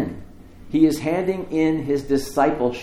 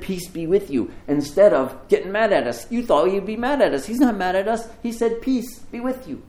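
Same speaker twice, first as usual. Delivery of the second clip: high, louder, breathless good news; excited insisting; 7 semitones higher, 3 dB louder than usual. Acted. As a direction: burst out with joy, pitch way up. Disciples insisting they saw Jesus.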